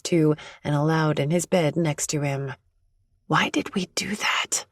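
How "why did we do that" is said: hushed, uneasy whisper. Acted. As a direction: whisper the question, not meeting his eyes. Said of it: "I whisper".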